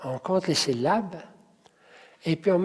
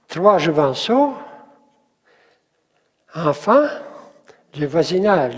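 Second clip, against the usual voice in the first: loud, long pauses after "jouvenceaux" and "enfants"; rhythmic groups; 4 dB louder than usual. Shown as a demonstration. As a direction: lift and stress "-ceaux", "-fants", then "-nage". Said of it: "C'est ça le rythme". (scandé par groupes, accent sur « jouvenceaux », « enfants », « voisinage »)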